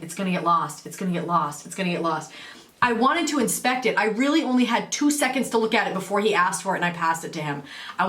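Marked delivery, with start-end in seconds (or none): 0.0-2.3 low, repeated worry under the breath; retold fretting in a lowered voice; resigned fretting. Recalling losing sight of the pick, resigned fretting.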